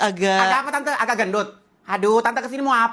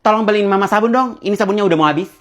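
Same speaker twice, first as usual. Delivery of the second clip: calling out; 7 dB louder, faster than usual. Acted. Mother calling child for errand.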